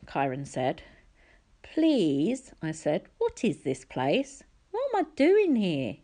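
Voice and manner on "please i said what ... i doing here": urgent pleading. A narrator's reading. Percy pleading, confused.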